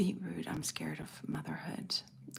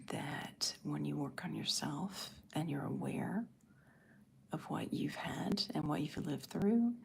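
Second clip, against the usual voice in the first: ASMR whisper. Real, not acted. Whispering to her livestream viewers about motherhood. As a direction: hush it like an ASMR video.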